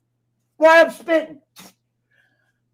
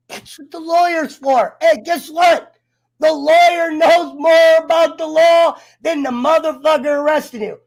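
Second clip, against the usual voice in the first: louder, higher heated rant; shouting rant; 5 semitones higher, 3 dB louder than usual. Real, not acted. Warning viewers about cops, real heated shout. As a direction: yell the advice like you're fed up.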